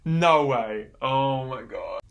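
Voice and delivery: surprised exclamation. Real, not acted. Shocked reaction to random pick.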